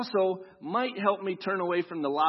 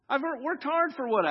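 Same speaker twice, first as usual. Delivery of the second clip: mock stern lecture; 9 semitones higher, 5 dB louder than usual. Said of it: "it allows us to say".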